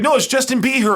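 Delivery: high retort with the singer's name said as BEE-her; insistent mispronunciation. Retold or imitated. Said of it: "She's like".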